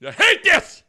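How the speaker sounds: put-on bored kid.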